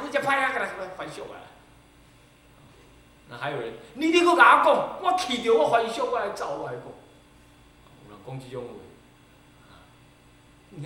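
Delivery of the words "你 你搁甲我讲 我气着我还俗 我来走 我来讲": higher, louder mock huffy threat. Disciple threatening the master, mock huffy. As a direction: imitate a sulking disciple threatening to leave. Believer threatening to quit monkhood.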